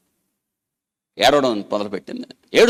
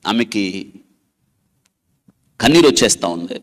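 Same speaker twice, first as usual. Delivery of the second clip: ordinary delivery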